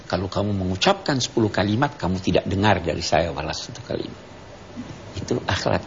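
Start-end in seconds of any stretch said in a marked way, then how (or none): 0.1-4.2 low, quick, composed reply; understated, brisk comeback; composed retort. Retold or imitated. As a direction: answer a scolder back in a lowered voice. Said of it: "ucapkan pada dia".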